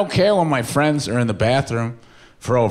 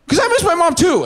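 mock crying friend; 13 semitones higher, faster than usual. Ryan confessing to his friend, a high hammed-up sob. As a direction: blurt it out through fake tears. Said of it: "And then he started crying".

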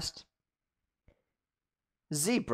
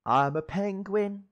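a hint of a higher penguin voice; 9 semitones higher than usual. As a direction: say it like a cute cartoon penguin.

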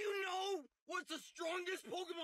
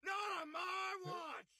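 angry rant. Real, not acted. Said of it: "He's pissed".

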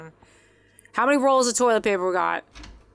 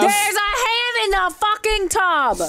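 high, slow shocked cry; shocked shout; 10 semitones higher, slower than usual. Real, not acted. Horror find in the bathtub.

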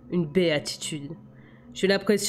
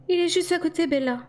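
high-pitched reassuring female voice; 11 semitones higher than usual. A narrator's reading. Alice reassures Bella that he is near, high reassuring voice. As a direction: reassure her in a much higher voice. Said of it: "la rassura Alice".

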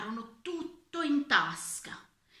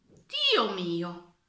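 loud, dismayed gasp of words; shocked exclamation; 7 dB louder than usual. A narrator's reading. The old minister seeing empty looms, shocked. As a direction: burst out in alarm.

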